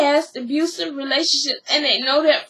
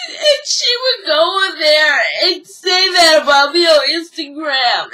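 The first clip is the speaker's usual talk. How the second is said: tearful shout; 2 semitones higher, 4 dB louder than usual. Retold or imitated. Mimics Erica Pinky crying.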